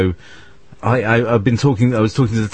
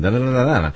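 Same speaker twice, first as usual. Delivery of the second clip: rhythmic da-da-da demonstrating an accent; own accent's rhythm; 4 semitones higher, much faster than usual. Shown as a demonstration. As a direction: tap out your accent in syllables. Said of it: "that's my accent".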